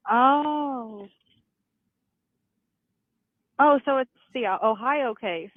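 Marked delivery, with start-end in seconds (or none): none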